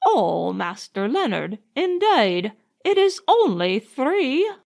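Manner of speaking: understated horrified cry; mildly horrified. Acted. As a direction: protest like a scandalised old nanny. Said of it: "cried Nanny, horrified".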